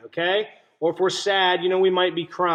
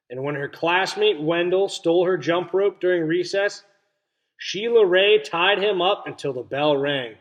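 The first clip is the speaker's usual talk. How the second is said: put-on reading to children. A narrator's reading. Teacher reading a story to her class, clear and expressive. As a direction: read it to the class with wonder. Teacher reads picture book aloud.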